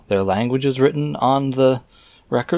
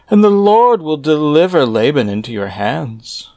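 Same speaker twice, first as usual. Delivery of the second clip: raised, measured reading voice; scripture reading; 2 semitones higher than usual. Acted. Reader reciting scripture verses aloud in a solemn reading voice. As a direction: read the old verses out with solemn weight. Reads the angel's speech aloud.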